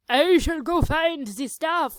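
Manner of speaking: a hint of a grand hero voice; chosen character voice. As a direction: announce it like a pompous hero. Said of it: "This is the voice I have chosen to do".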